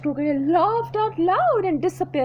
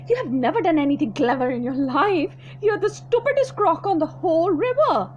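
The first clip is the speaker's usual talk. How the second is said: louder, higher scolding croc; scornful small croc; 3 semitones higher, 4 dB louder than usual. Acted. Small crocodile mocking the big one, scornful. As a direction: sneer at him for being stupid.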